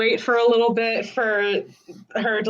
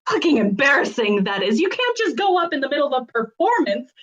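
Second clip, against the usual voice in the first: fast rant that climbs much higher at the end; ranting building to shouting; 3 semitones higher, much faster than usual. Acted. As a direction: build from a rapid scold to a shout. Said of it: "going off in orc ... starts shouting".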